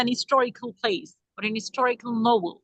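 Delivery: "an historical" slowly, linked as an-istorical; dropped H. Shown as a demonstration. Teacher showing native usage to students, "an historical" with H dropped. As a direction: draw out "an historical" with the H silent. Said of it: "हिस्टोरिकल नहीं बोला उन्हें".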